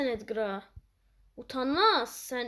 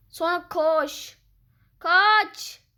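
louder, higher run command; urgent shout; 6 semitones higher, 9 dB louder, much slower than usual. Real, not acted. Gamer yelling at teammate to run away, urgent shout. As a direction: yell at a teammate to flee.

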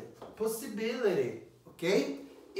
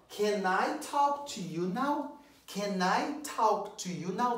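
slow question, rising on talk; slow model question; 3 semitones higher, slower than usual. Shown as a demonstration. Teacher modelling a polite request slowly. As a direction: ask it slowly and clearly. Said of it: "Olha aqui, ó".

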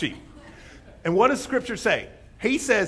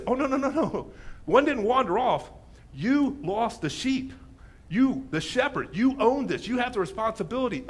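lightly raised, weighted correction; emphatic; 3 semitones higher than usual. Retold or imitated. Jesus correcting the Pharisees over the lost sheep, emphatic. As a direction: hammer YOU as the one responsible. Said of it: "What he says here is so emphatic".

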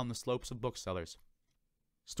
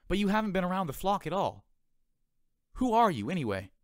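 amazed questions; 9 semitones higher, 3 dB louder than usual. Acted.

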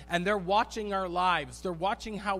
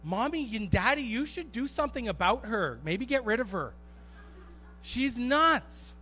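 mock tattling sibling; 5 semitones higher than usual. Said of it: "I'm like".

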